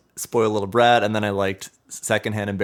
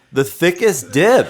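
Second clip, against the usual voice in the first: award show hype; 6 semitones higher, 5 dB louder, slower than usual. Pretend. Mock award presentation.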